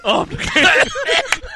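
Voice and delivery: laughing boast. Pretend.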